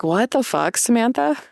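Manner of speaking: mock-outraged, leaping high on the name; half-joking, calling herself out in disbelief; exasperated outburst. Mocking her own judgment of her husband, exasperated.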